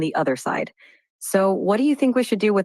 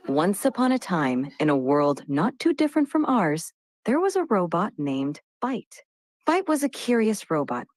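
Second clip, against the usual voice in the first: bedtime story narration. Shown as a demonstration. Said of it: "tell him a bedtime story".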